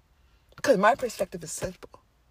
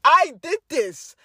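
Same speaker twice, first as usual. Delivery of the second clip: high, slow and louder, stunned; gasping at her own power; amazed excitement; 6 semitones higher, 7 dB louder, slower than usual. Retold or imitated. Telling friends how her mom brought fish, amazed.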